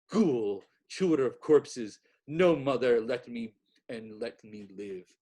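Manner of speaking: loud, desperate soul's cry; anguished cry. A narrator's reading. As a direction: cry it out from the soul. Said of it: "his soul's cry".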